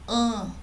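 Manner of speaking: "An" as one isolated vowel through the nose; nasal sound. Shown as a demonstration. Teacher showing sound coming out the nose, nasal "An". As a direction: hum "An" nasally, on its own. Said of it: "Esse som está saindo pelo nariz".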